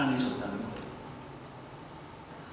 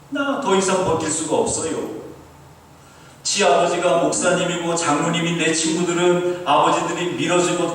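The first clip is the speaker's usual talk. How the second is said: put-on higher, insistent Busan-accented complaint; Busan dialect prayer; 5 semitones higher, 4 dB louder than usual. Fatherless student protesting to God, pleading in Busan dialect. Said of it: "자기가 부산 사투리로 기도했더니".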